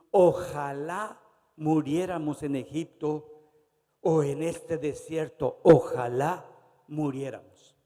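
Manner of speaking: slow, loud wail of a crowd wanting to die; loud despairing lament. Acted. The crowd complains to Moses, loud slow wail. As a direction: drag it out loudly, like people giving up in the desert. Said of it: "Y le dijo toda la multitud".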